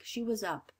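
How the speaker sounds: plain reading voice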